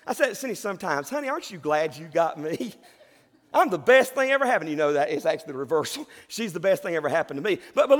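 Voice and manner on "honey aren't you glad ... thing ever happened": joking laugh. Retold or imitated. Joking to his wife Cindy.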